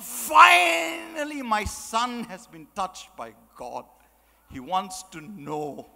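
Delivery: overjoyed mother. Retold or imitated. Mother overjoyed, retold thought.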